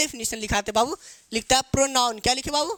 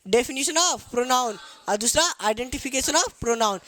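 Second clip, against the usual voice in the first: slow, word by word; slow dictation; much slower than usual. Shown as a demonstration. Teacher listing both topics for pupils, slowly. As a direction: dictate both headings clearly. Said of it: "ये दो बात सबसे पहले हम सीखेंगे".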